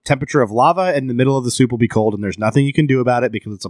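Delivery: speech broken by hiccups; hiccuping while ranting. Real, not acted. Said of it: "I can't keep talking through these hiccups".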